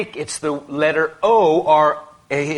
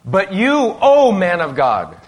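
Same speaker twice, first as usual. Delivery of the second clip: louder, slower, pressing each word; urgent, intense; 3 semitones higher, 4 dB louder, slower than usual. Retold or imitated. Paul urging Timothy: urgent, louder, slower appeal. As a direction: call him out with urgency, louder. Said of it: "with urgency, intensity".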